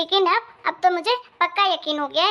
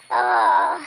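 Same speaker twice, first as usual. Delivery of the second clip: pained groan. Acted. Daughter has a stomach ache.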